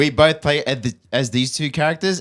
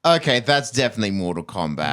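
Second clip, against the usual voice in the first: whispering. Real, not acted. Whispered reply after whispered quote.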